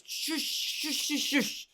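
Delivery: hissed whispered shush. Acted. Shushing the shirt guy in the restaurant, whispered. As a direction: shush him urgently under your breath. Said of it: "And it's like".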